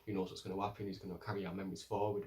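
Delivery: understated gentle pitch to the council; soft persuasive. Retold or imitated. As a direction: coax them quietly toward the choice.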